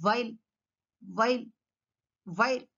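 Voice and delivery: "వైల్" as vile, teeth on bottom lip; V sound. Shown as a demonstration. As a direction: start "వైల్" with V. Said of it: "Teeth should touch the".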